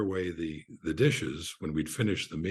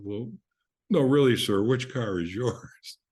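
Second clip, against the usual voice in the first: higher, louder pleading, slowing at the end; flustered, plucking up courage; 5 semitones higher, 4 dB louder than usual. Retold or imitated. Flustered valet pressing the guest, mock courage worked up. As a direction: imitate a nervous valet insisting politely. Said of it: "little longer to work up his courage".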